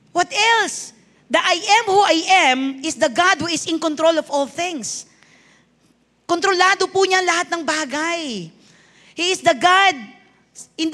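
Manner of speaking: emphatic preacher, drawing out key phrases; preaching. Real, not acted. Preaches to congregation. (madiing pangangaral sa simbahan)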